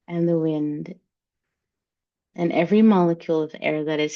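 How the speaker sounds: unhurried meditation guide; guided meditation. Acted. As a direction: lead the group gently into the breath. Leads a breathing meditation.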